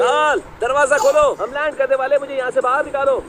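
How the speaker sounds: high, urgent calling out; urgent plea. Acted. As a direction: plead urgently to be let out. (घबराकर ऊँची आवाज़ में पुकार)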